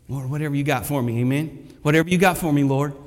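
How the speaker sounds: ordinary talk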